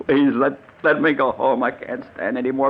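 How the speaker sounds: broken pleading. Acted. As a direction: beg to go home. Victim breaks down begging.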